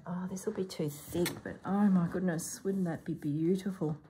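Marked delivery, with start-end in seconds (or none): 0.1-1.3 whispered, worried aside; whispered worry. Real, not acted. Crafter fearing the fabric's bulk, in a whisper. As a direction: breathe the worry out.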